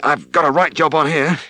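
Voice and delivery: a farmer struggling mid-calving; worn-out farmer. Acted.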